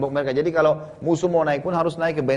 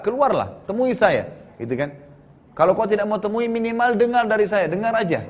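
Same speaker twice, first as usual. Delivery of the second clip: pleading call; 6 semitones higher than usual. Retold or imitated. Huyai pleading outside fort gate.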